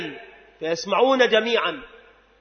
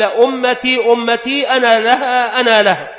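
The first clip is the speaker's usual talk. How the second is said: raised, emphatic quoted plea; impassioned declaration; 4 semitones higher, 4 dB louder than usual. Retold or imitated. Preacher voicing the Prophet's plea for his nation, impassioned.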